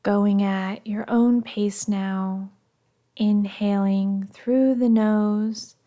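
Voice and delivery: calm, measured meditation voice with long pauses; guided meditation. Acted. Meditation guide settling listeners after an argument, calm and soothing. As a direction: guide them gently through each breath, unhurried.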